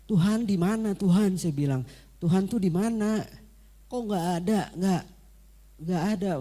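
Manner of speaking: high, loud, tearful cry of where are you; crying plea to God. Retold or imitated. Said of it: "saya nangis". (tangisan putus asa yang keras dan tinggi)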